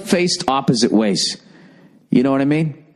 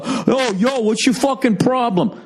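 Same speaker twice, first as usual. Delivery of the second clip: high, put-on tough-guy challenge; mock tough guy; 8 semitones higher, slower than usual. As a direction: play the boyfriend picking a fight. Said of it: "have to fucking go".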